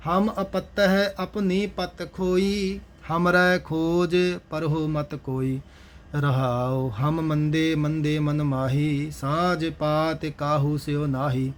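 measured Gurbani chant-reading with drawn-out line endings; scripture recitation. Acted. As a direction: recite each verse slowly and evenly. (Gurbani ਦਾ ਸਹਿਜ ਪਾਠ)

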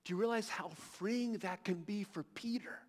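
softly whispered question. Real, not acted. Preacher whispering to the congregation about grace. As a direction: lean in and whisper it to them.

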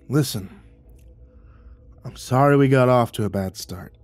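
lightly voiced gruff vet, half apology, half order; blunt, set out your terms; gruff old neighbor. The neighbor lays down his rules, lightly voiced gruff old man.

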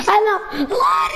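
high, tearful-sounding protest; whiny crying. Real, not acted. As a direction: wail as if close to crying. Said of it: "Para de chorar".

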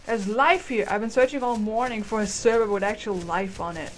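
a lightly voiced dino thrilled to find players; voicing the dino. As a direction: speak as the excited creature who found company. Voicing the dinosaur character.

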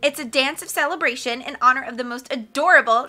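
loud piercing brat. Acted. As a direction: announce it like a bratty star. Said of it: "loud, piercing voice of Carmelita".

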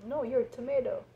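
goofy mock correction; silly second voice. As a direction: answer like the other cartoon vegetable. Silly acted potato/tomato dialogue.

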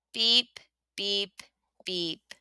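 fading beeps. A narrator's reading. Little Blue drives off at the end, his beeps fading away. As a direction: let the horn fade away as he drives off.

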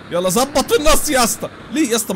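high, loud yell at the driver; excited shout. Real, not acted. Gamer yelling at his car to land it straight.

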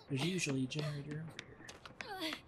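hushed whisper. Real, not acted. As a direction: whisper it so nobody hears. Whispering while hiding in game.

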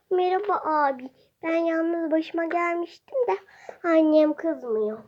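lightly voiced little kid; a hint of a small child. Child customer voice.

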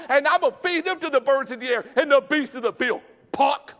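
high, loud sneering threats; mock the little punk with scorn; Goliath's taunt. Giant Goliath jeering at young David, loud and scornful. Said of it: "He's like".

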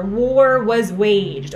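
slow, drawn-out evasive phrasing; mock politician avoiding responsibility; evasive blame-dodging. Shown as a demonstration. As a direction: dodge the blame, slowly. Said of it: "it hides blame".

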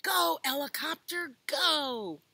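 high, loud excited cheer; rally the hero to go. Acted. Cheering the helicopter on.

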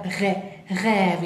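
"rêve" with a long open E; lengthened vowel. Shown as a demonstration. Teacher explaining the circumflex, lengthened vowel.

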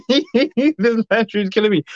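lightly voiced mock plaint; put-on voice. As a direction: play it as a silly character voice.

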